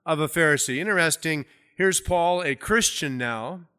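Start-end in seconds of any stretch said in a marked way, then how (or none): 0.0-0.8 raised, louder reading of a public declaration; crying out. Retold or imitated. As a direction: call out to the council, measured. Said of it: "he cried out in the council".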